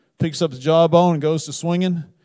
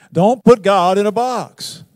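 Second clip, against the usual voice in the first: slow emphatic command; 5 semitones higher, 7 dB louder, slower than usual. Real, not acted. Preacher's exhortation.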